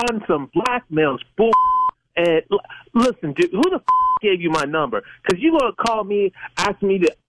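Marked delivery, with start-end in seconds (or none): none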